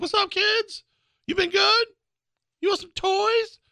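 very high-pitched, creepy voice. Recalling Santa showing up at the end of the parade: creepy Santa voice. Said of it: "he sounds like the creepy guy from Family Guy".

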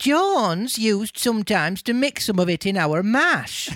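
earthy salt-of-the-earth hen character voice. Voicing one of the hens in a drama, in a salt-of-the-earth voice. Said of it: "Salt of the earth voice".

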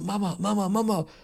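panicked, anguished, high-pitched, desperate screaming. Recounting hearing him scream after he went upstairs, imitating someone really screaming. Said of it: "so richtig so schreien und so".

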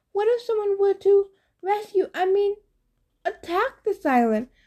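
very high, anxious, nervous gulping voice. Grover answers Polly after her teasing; nervous, gulping. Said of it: "Grover gulped".

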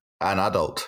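flat, deadpan delivery. Recalling answering a birthday clown as a small child, retelling a deadpan answer. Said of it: "I said quite deadpan".

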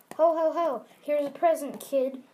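loud, booming ho ho ho. Describing Santa arriving at her house, in a Santa voice. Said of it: "Santa freaking comes to her house, and he's all like".

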